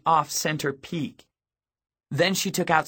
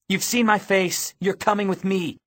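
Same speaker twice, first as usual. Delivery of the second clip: raised, high, no-argument command; forceful order; 7 semitones higher than usual. A narrator's reading. Girl drags along witness to her face, commanding. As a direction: leave them no choice. Forcing him along through crowd.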